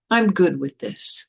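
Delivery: slow, spaced-out affirmation with a rise; deliberate acceptance. Retold or imitated. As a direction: affirm it slowly, in full voice. Repeats the acceptance more decidedly.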